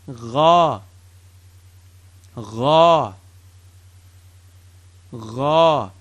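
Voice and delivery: gargle the "gha" gently; teacher demonstrating the ghain "gha"; gargled gha. Shown as a demonstration. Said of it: "Say it with me".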